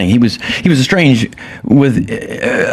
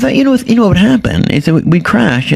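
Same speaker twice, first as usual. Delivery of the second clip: Leno impression; 10 semitones higher than usual. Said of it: "That's a horrible Jay Leno".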